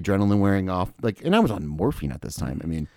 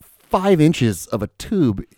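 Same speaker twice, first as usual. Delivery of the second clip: indignant retort; 6 semitones higher, slower than usual. Retold or imitated. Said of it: "And I'm like".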